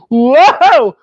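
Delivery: high, loud gasp of wonder; childlike wonder at the smell; amazed wow. Retold or imitated. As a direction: breathe it in like a kid at grandma's door. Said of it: "I'd be like".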